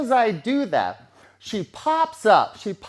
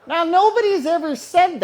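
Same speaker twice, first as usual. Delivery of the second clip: laughing; 8 semitones higher, 6 dB louder than usual. Real, not acted.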